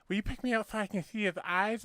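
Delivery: a hint of the character's speech impediment. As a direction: joke teller voicing the little man at the door. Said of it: "he's got a fucking speech impediment".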